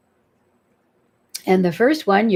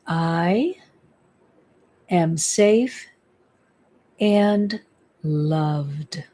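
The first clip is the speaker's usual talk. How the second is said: spoken affirmation; 3 semitones lower, much slower than usual. Shown as a demonstration. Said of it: "you wanna say this out loud".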